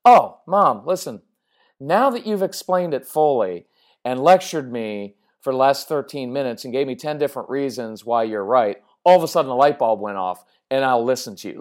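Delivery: mock the kid suddenly seeing the light; mock teen. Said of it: "the fourteen-year-old is gonna say".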